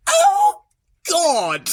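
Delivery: high gasping cry of shock. Acted. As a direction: cry out in horror at what he sees. Character reacts in shock.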